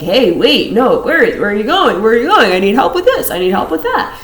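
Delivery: a hint of needy friends asking for help; clingy people pleading. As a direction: beg them not to leave.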